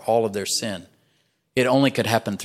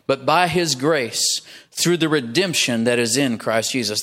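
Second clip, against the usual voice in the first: slow, deliberate scripture reading; unhurried verse reading. Real, not acted. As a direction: read it out slowly, phrase by phrase. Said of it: "I'm gonna read it slowly".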